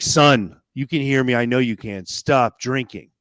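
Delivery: loud, slow, commanding voice from above; retelling God's booming command, mildly acted. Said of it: "this voice that's, like, got bass. It's booming".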